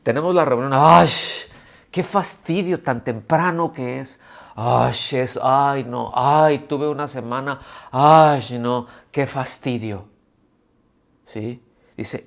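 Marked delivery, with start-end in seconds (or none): 0.7-10.0 mock whining. Mocking a bored churchgoer.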